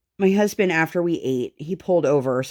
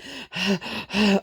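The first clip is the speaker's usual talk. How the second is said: exaggerated huffing; 4 semitones higher than usual. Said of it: "She was so, like".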